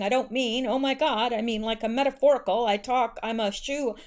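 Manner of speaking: stumbling, flustered quote with false starts; mildly acted stammering apology; stuttering apology. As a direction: read out a halting, apologetic backpedal. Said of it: "McCain said while stuttering".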